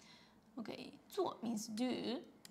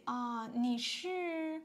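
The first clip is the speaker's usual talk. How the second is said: polite; slower than usual. Shown as a demonstration. Teacher showing learners the polite way to ask who is calling. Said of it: "you can just say".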